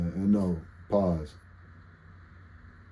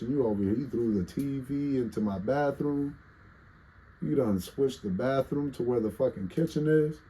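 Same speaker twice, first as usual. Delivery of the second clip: higher, building scolding spider; angry spider voice; 6 semitones higher than usual. Retold or imitated. Spider scolding the streamer for shaking its shoe home, angry. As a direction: rant like an evicted little spider. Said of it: "It's like".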